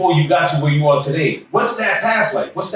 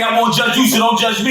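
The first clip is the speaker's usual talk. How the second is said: excited shout; 5 semitones higher than usual. Real, not acted. Hyped sign-off shout.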